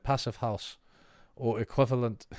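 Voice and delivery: "Passive house" with a half-hearted German accent; mock German accent. Shown as a demonstration. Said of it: "Why did I try to do a German accent?".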